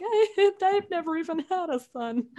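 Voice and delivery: high, laughing tearful protest; laughing mock wail. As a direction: squeak it out through laughter and tears. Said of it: "And I was like".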